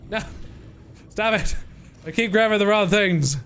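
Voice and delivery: real annoyance at your own clumsiness; yelping at yourself for misclicking; frustrated outburst. Real, not acted. Frustrated at grabbing wrong items.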